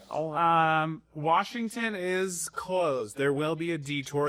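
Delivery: drawn-out, deliberate wording; slow careful announcement. Retold or imitated. Telling someone about a detour, slow and careful. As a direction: spell the detour out slowly. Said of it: "be like".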